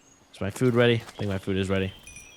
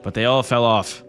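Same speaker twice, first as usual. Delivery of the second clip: put-on pretentious British accent; 3 semitones higher, 4 dB louder than usual. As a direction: read it like a snooty British lord, projecting. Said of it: "Let me read this in a pretentious British accent".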